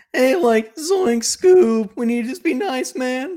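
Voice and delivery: very high, loud slacker cartoon voice. Reading a text aloud and rating it, in a Shaggy voice. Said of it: "just read this like Shaggy from Scooby-Doo".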